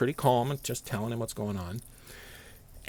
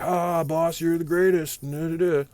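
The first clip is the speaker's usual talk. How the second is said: higher, mock flattering voice; fawning sycophant; 7 semitones higher, 3 dB louder than usual. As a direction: suck up to the boss in a hammed-up way. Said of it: "the guys are like".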